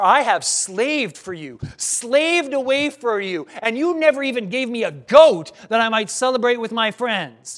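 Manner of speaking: a hint of a bitter son; resentful slave. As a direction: spit out slaved like a grudge. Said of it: "literally are".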